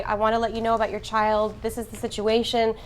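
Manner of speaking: clear, composed, assured statement; upright, confident doctor. Shown as a demonstration. Doctor telling a parent about their child, confident and clear. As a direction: say it plainly and steadily, with assurance. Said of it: "stand upright and say".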